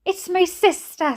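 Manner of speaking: high, understated sob; mildly sobbing. A narrator's reading. Mother telling nurse about her sister, mildly sobbing. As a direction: plead with a touch of tears. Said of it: "sobbed Brenda".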